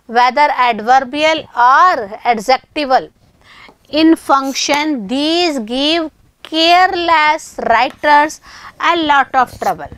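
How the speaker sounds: word by word, very slow; teacher reading a grammar rule aloud to students, very slow; very slow dictation. Shown as a demonstration. Reading English rule slowly.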